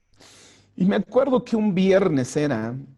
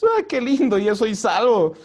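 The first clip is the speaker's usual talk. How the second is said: mock delight; 4 semitones higher, 3 dB louder than usual. Mock shallow joy at salvation.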